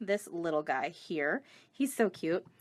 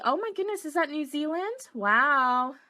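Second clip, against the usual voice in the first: surprised; 4 semitones higher than usual. Real, not acted. Viewer comments from New Zealand.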